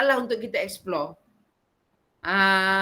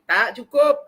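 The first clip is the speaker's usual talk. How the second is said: a firm, louder "not enough"; firm teacher; 3 semitones higher, 6 dB louder, slower than usual. Retold or imitated. A teacher firmly telling a student the work is not enough, loud. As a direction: tell the student it's not enough yet. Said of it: "Macam Pak Roziah buat dengan saya tadi".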